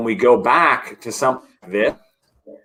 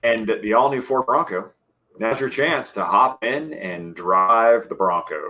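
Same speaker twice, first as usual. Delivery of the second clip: announcer voice. Pretend. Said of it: "my announcer voice ready for next week".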